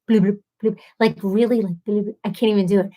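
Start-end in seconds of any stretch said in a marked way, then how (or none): 0.1-0.8 wet blubbering lip sounds; imitated mouth noises. Showing what listeners hear in the microphone, mimicked mouth noises. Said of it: "so you hear just, like". 1.8-2.2 brief wet lip blubber; imitated mouth noises. Showing what listeners hear in the microphone, mimicked blubbering. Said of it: "so you hear just, like".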